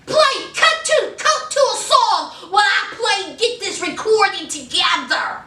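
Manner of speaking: high, agitated mock command; agitated orders. Host as a rapper ordering a song cued, agitated. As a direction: fire off orders in a huff.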